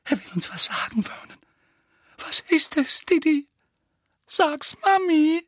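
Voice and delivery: high, coaxing mother voice. A narrator's reading. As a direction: coax him like a child. Petunia voiced.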